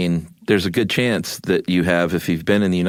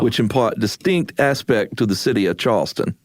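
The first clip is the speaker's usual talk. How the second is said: put-on mid-Atlantic accent; 4 semitones higher than usual. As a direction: read it like an old newsreel in mid-Atlantic. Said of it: "read it in a mid-Atlantic accent".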